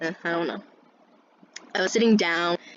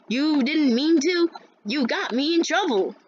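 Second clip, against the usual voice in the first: higher, slow indignant reproach; 7 semitones higher than usual. Retold or imitated. Student to friend who got him in trouble, indignant. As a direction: draw out the accusation in disbelief.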